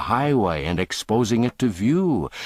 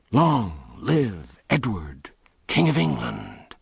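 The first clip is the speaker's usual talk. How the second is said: slow, rumbling chorus of rough men; crowd response; 3 semitones higher than usual. Acted. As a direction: answer as a rowdy crowd. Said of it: "thundergust from the motley crew".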